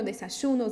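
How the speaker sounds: desayuno with y said like sh, River Plate style; desayuno, y hissed as sh. Shown as a demonstration. Teacher showing the Argentine desayuno. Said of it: "vai mudar muito a pronúncia segundo o país".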